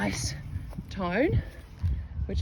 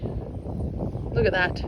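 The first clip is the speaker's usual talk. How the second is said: slow breathless whisper of wonder; whispered in awe; awed whisper; much slower than usual. Real, not acted. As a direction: hush it out slowly, amazed at the coin. Awed at a found coin.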